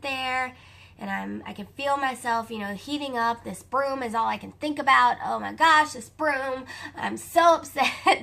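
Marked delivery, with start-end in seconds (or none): 5.2-8.2 retold fretting. Retelling fretting over the broom.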